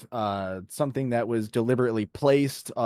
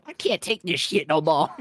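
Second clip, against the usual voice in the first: lightly voiced cartoon duck; a hint of a squawky duck; Donald Duck voice. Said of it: "I can't do a Donald Duck".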